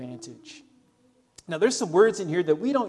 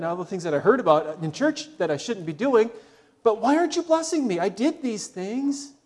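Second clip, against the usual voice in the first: whiny mock complaint, higher, rushing; griping malcontent; 4 semitones higher, 3 dB louder, faster than usual. Preacher voicing a malcontent griping at God, whiny. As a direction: whine to God like a spoiled churchgoer. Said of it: "gripe and complain".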